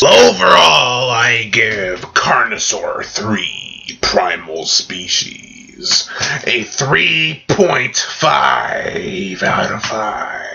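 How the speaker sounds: very slow, drawn-out announcer rating; slow, theatrical score announcement; dramatic verdict. Acted. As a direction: stretch the rating out like a grand verdict. Delivering the final rating.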